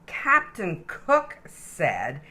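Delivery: lively, sing-song storybook reading; animated read-aloud for little kids; reading to children. Acted. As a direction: read it like a bedtime picture book. Reads picture book to child.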